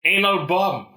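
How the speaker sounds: Sean Connery impression. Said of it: "the guy who's playing Sean Connery goes".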